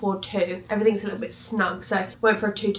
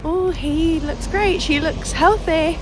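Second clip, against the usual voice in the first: imitating sonographer; 8 semitones higher, slower than usual. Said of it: "horror stories that they say".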